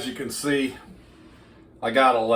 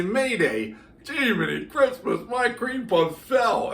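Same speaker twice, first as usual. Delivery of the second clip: higher, slower mock wail over a fallen cream puff; dismayed viewer; 10 semitones higher than usual. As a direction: play the panicked baker whose puffs collapsed, pitched up. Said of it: "you're gonna say".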